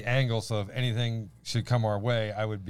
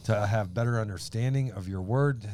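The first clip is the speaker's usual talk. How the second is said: earnest spoken prayer to open; slowing prayer that settles into amen. Real, not acted. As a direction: pray sincerely for the group. Leads an opening prayer.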